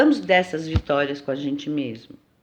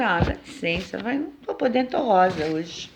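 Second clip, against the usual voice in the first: dismissive brush-off; 3 dB quieter than usual. Retold or imitated. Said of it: "eu falo com ela assim".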